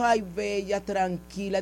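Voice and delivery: soft, low retelling of a comforting friend; soothing. Retold or imitated. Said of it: "me abrazó y me dijo".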